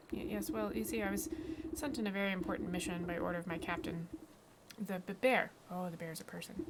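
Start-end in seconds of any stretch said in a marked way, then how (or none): 0.1-5.5 nervous stammer on first sounds; stuttering. Acted. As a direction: trip over the starting consonants. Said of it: "written stutter and my vocalization of the stutter".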